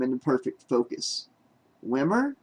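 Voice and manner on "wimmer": horrified cry. Acted. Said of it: "The cry burst out of her".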